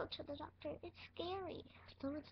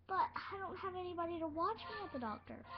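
pretend crying; 4 semitones higher than usual. Pretend patient scared of doctor.

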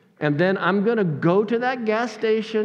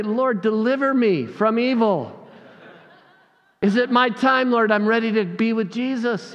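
mock desperate prayer; 3 semitones higher than usual. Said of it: "I also would pray".

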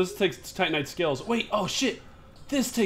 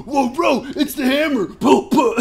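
high, loud words through laughter; helplessly cracking up while exclaiming; laughing hard; 9 semitones higher, 7 dB louder than usual. Real, not acted. Telling friend they got stuck in the hammer, laughing hard.

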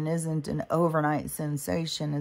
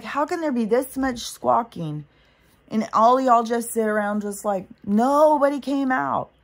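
1 incredulous outburst; 6 semitones higher, 5 dB louder than usual. Retold or imitated. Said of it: "I was like".

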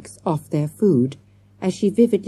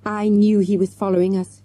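breathless, higher-pitched rush of alarm; 5 semitones higher than usual. A narrator's reading. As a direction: press on as if short of breath. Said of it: "she went on breathlessly".

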